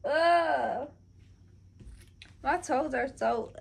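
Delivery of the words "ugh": drawn-out higher-pitched groan. Real, not acted. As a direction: groan out a long ugh. Disgusted at own toes.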